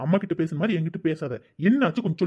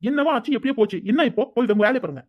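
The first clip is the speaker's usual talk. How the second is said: annoyed, higher-pitched outburst; raised-voice retort; 4 semitones higher than usual. Acted. Son brushing off mother's questions, angry raised voice. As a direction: throw the question back crossly. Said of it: "எதுக்கு இப்ப அம்மா கிட்ட சத்தம் போடுற".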